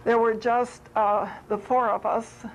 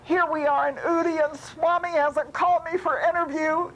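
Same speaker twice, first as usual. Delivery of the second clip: high, quick imitated grumble; mock complaint; 6 semitones higher than usual. Swami mimicking devotee's wait for an interview, mock complaining. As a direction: playfully mimic a put-out devotee. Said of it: "you were so angry with Swami".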